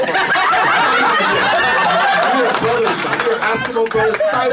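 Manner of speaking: mock fanboy plea. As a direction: beg like a giddy fan. Repeated punchline.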